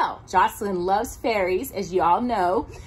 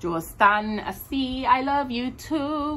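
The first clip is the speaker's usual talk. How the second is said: soft goodnight; slower than usual. Acted. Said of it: "whispered Josephine".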